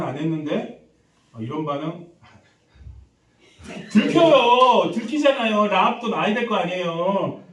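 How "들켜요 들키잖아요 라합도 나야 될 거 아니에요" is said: loud, high, long-drawn first word, then easing; exasperated outcry. Real, not acted. Preacher supplying the answer his congregation missed, exasperated. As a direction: cry out the obvious answer.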